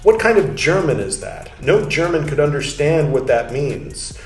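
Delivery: put-on measured, steady reading of an old text; calm scholarly reading voice; reading aloud. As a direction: read it like a lecture passage. Reads Luther translation text aloud.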